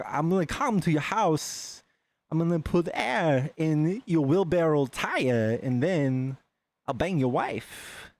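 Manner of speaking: Christopher Walken impression. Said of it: "we would say things like".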